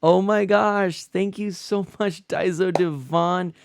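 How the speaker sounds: high, loud, stretched-out raid thanks; slow, high, loud thank-you to a raiding streamer; excited welcome. Real, not acted. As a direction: greet the raiders with big delight. Greeting incoming raid on stream.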